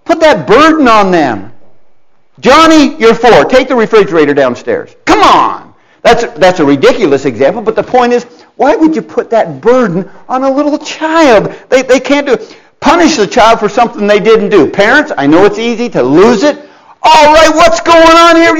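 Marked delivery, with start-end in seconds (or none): 2.4-5.0 a hint of a bossy parent giving orders; lightly voiced parent, DON'T over-sell the command; mock parent order. Preacher mimics a parent ordering his small son. 17.0-18.6 higher, louder mock demand from a fed-up parent; mock angry parent. Preacher mimics a parent barging in on the kids, mock angry.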